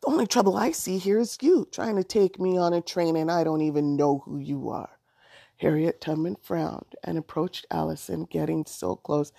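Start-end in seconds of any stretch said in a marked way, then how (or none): 0.0-5.0 angry retort. Acted. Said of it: "Allison said angrily".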